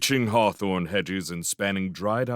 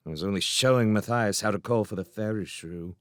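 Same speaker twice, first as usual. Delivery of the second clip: surly mutter. Acted. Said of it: "Gyorsum muttered surlily".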